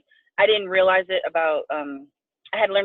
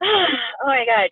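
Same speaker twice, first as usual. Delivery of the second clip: tearful; 4 semitones higher, much slower than usual. Real, not acted. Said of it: "I get very emotional".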